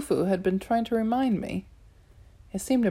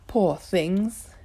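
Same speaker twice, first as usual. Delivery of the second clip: purring. Acted. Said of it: "the Catwoman purred".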